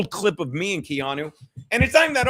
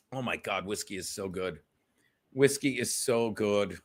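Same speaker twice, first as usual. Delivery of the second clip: deep savoring murmur; 9 semitones lower, 6 dB quieter than usual. Real, not acted. Savoring whiskey on stream.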